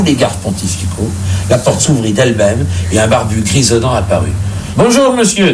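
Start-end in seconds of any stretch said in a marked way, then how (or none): 4.8-5.5 distrait. Acted. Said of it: "dit distraitement le pape".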